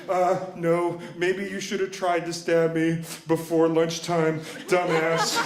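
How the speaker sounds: slow, deliberate comeback; smartass retort. Retold or imitated. Cornered kid talking back to his bullies, smartass. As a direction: spell it out slowly like a smartass. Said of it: "instinct for smartassery".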